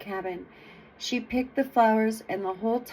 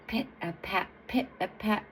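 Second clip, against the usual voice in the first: measured, weighty pit-a-pat; big, heavy footsteps; 7 dB quieter than usual. A narrator's reading. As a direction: give each step a little weight. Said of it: "she hears big and heavy".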